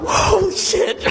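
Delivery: high, slow stunned exclamation; drawn-out disbelieving holy shit; shocked. Retold or imitated. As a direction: let the shock stretch out high. Shocked at the story.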